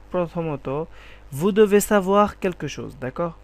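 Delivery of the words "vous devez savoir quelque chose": slow, louder teaching sentence; teacher demo; slow emphatic model. Shown as a demonstration. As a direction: say each word for learners to catch. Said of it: "teacher models French".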